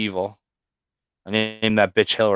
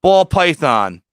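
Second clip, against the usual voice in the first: louder, slow, higher ad reading; half-joking sales pitch voice; mock ad announcement; 5 semitones higher, 4 dB louder, much slower than usual. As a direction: announce it like a classified ad. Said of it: "I posted".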